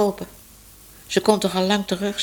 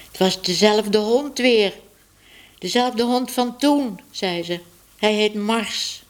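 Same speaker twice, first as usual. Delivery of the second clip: put-on higher, slow girlish voice; Minoes contrite; 5 semitones higher than usual. Minoes telling Tibbe about the dog, higher and slow.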